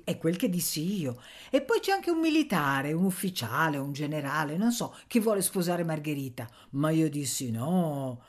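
popolana appena caratterizzata, con slanci acuti; Nanna, svagata e insistente. Acted. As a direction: accenna una vecchia che divaga con enfasi. Personaggio di Nanna che parla. (popolana recitata, un po' enfatica)

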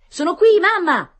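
put-on high, loud boy calling his mother; grido. A narrator's reading. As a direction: call out to be noticed from afar. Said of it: "gridò Tonino". (grido acuto di bambino)

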